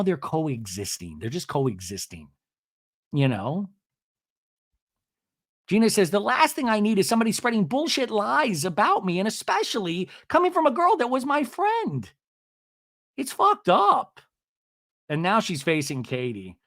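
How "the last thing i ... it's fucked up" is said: high-pitched mock indignation; upset complaint. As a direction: complain high, stretching the last words. Retold angry complaint about lies.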